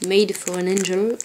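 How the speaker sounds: English read with a French accent. Real, not acted. Vlogger reading an angel charm's English inscription, French accent. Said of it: "avec mon super accent".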